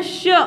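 "श" with a faint short i after the sh; sh with slight i. Shown as a demonstration. Teacher pointing out the hidden vowel, i-tinged "श". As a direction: let a little "इ" colour the end of "श". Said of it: "छोटी ई की सी आवाज निकलती है थोड़ी".

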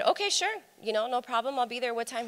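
high, bright, overly agreeable okay; replying cheerfully to the boss, high and eager; eager yes. Retold or imitated. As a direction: sound keen to please the boss. Eager reply to boss's text.

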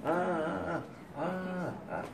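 a short performed lament cry; mock wailing. Shown as a demonstration. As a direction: show the forbidden wail, then let it sink. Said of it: "But not wailing".

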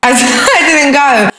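loud real laugh breaking into the words; laughing while talking. Real, not acted. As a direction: crack up mid-sentence. Cracking up at the misunderstanding.

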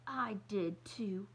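slow, whispered, defiant; belligerent. Acted. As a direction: hiss it back stubbornly. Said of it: "she said belligerently".

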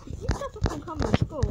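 a whispered complaint about school; whispered aside. Real, not acted. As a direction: whisper it like a confession.

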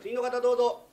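high, loud summons; calling out. Acted. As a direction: call the next person in from outside. Calling in the next interviewee. (次の人を大声で呼び込む)

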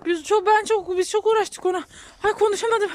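breathless after heavy snow work; wheezy voice. Real, not acted. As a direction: talk while still catching breath. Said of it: "Nefesim kesildi çünkü".

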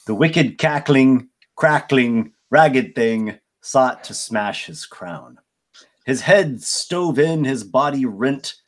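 reciting a ballad with flourish; poem recital. Acted. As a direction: read it like a bard's poem. GM reads the bard's ballad.

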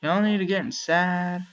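playfully herd the animals in a mock folksy voice; half-hearted put-on voice calling the pets in; silly put-on voice. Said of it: "Why am I talking like this?".

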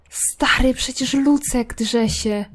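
slow hushed aside; whisper. Real, not acted. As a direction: whisper it slowly. Whispers about the cat.

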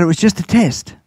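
whispered teasing aside. Retold or imitated. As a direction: breathe it like a little secret. Grandfather teases grandson at McDonald's.

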